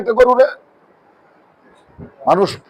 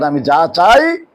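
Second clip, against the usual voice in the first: solemn divine quote; 5 semitones lower, much slower than usual. Acted. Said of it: "আল্লাহ বলেন".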